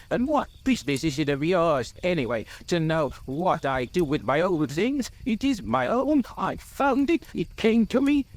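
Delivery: rising high-pitched indignation; angry. A narrator's reading. Bilbo defends his claim to the ring, angry. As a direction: build from testy to high, possessive anger. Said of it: "there is no need to get angry".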